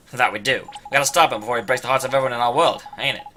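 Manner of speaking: lightly voiced pirate rallying; rousing pirate. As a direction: stir up the crew.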